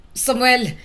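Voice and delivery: worried father's shout; anxious call. A narrator's reading. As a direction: call out in alarm for a missing son. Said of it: "Napamura si Sandro sa kaba".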